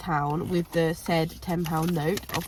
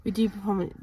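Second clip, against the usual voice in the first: quick whispered apology; whispered aside; 5 dB quieter than usual. Real, not acted. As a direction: whisper it under your breath. Apologetic aside after interruption.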